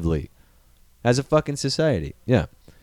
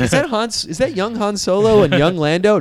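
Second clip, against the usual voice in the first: mock amazed gasp; 8 semitones higher than usual. Mock bystander spotting Star Wars cameo.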